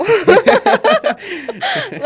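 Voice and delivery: bursting into a high loud laugh; a loud high laugh at her own answer. Real, not acted. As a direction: laugh it off brightly.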